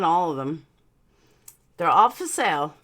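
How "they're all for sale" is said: slight lisp from aligners; talking with a mild lisp. Real, not acted. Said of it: "Do I sound really bad with the, like, lisp".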